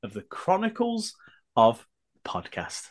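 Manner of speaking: hoarse, straining for a high intro; croaky voice pushed up high. Real, not acted. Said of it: "the bearded brummie with a very croaky voice".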